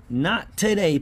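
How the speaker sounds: exasperated cry of "Not today". Real, not acted. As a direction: let the second "Not today" jump up in disbelief. Repeats louder, higher in frustration.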